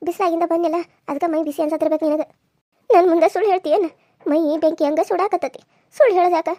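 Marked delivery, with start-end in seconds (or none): 2.9-6.5 louder, insistent reproof; fussing elder telling a child off; worried scolding. Acted. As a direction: challenge a fib out of concern. Grandmother scolds girl for hiding fever.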